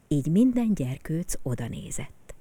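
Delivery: ordinary delivery, nothing marked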